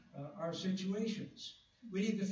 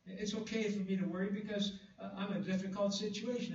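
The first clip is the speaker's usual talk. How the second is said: imitating a worrier; 4 semitones higher than usual. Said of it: "We try to justify worry".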